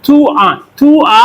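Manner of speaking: थुआ said twice, slowly and clearly; slow syllable demo. Shown as a demonstration. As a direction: spell थुआ out slowly by ear. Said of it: "उसने थुआ लिखा ना". (थुआ को धीरे-धीरे दोहराएँ)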